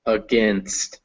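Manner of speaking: "against" with a short, weak "uh" first vowel; schwa in against. Shown as a demonstration. Teacher shows learner the unstressed vowel, schwa in "against". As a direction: say "against" with its opening vowel reduced to "uh". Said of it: "that first vowel is uh".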